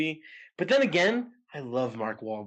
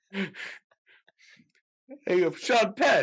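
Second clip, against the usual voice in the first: Sean Penn impression; 6 semitones higher, 4 dB louder, much slower than usual. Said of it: "Here's another impression".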